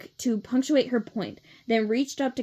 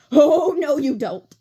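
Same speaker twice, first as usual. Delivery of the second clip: loud protest; 5 semitones higher, 9 dB louder, slower than usual. A narrator's reading. Clover protesting in story.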